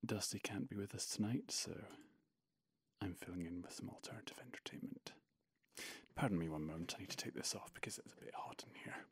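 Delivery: hushed, breathy commentary murmur; snooker commentary voice. Real, not acted. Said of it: "more like my snooker commentary voice".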